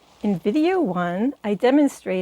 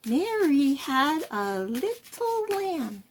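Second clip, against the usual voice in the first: spitting words out; 5 semitones higher, 5 dB quieter, slower than usual. Shown as a demonstration. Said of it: "spitting them out".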